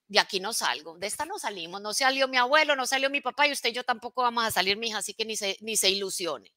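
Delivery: a touch of a gruff, stuck-in-his-ways man; stubborn fixed-mindset person. Retold or imitated. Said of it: "Qué es mentalidad fija".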